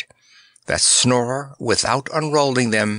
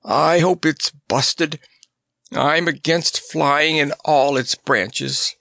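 groaning; 4 semitones higher, slower than usual. Acted. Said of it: "groaned the lion".

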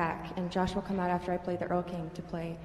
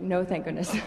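relief taken back, with a laugh; deflated mock relief breaking into laughter; rueful retraction. Violinist jokes about having to practice, rueful and laughing.

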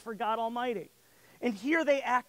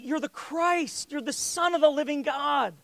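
retold excited proclamation; eager outburst; 4 semitones higher than usual. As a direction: blurt it like a keen disciple leaping up. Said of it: "jumping out of his seat".

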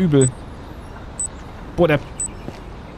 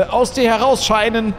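exorcist; 5 semitones higher than usual. Acted. Mock exorcism continues.

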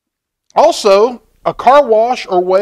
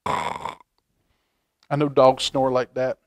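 doggy snore; 5 semitones lower, 7 dB quieter, much slower than usual. Shown as a demonstration. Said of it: "She might do a little doggy snore".

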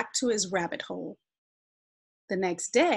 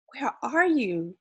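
higher, mildly impatient question; 5 semitones higher than usual. A narrator's reading. Little Sun seeks hidden Shade, mildly impatient. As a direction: ask with a touch of impatience. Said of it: "Little Sun asked impatiently".

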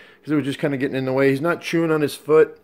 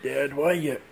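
lightly raised, whiny puppy complaint; pitched up, put-upon pet whine; grumpy dog voice; 5 semitones higher than usual. Retold or imitated. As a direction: voice the sleepy dog grumbling at dad. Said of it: "He's like".

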